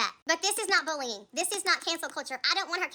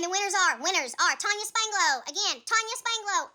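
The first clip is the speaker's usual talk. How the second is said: hint of a prize announcer, names drawn out; stretched-out mock prize announcement; mock winner announcer; 3 semitones higher than usual. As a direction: lightly imitate announcing raffle winners, slow on the name. Mimics announcing excursion winners.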